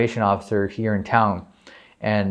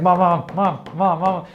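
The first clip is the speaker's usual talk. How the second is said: high, rapid-fire repeated calling; excited kid pestering mom, high-pitched; urgent calling out; 8 semitones higher than usual. Retold or imitated. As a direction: re-enact frantically calling for mom at the door. Calling mom at her door.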